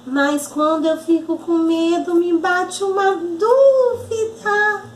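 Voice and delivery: put-on little-kid voice, mildly hesitant; a hint of a doubtful child; lightly voiced child puppet. Arabella tells auntie of her doubts, hesitant child.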